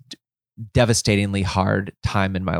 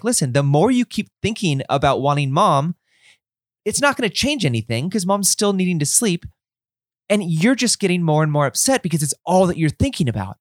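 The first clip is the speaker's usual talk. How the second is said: frustrated dad; 6 semitones higher than usual. Retold or imitated. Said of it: "I'm getting frustrated at her".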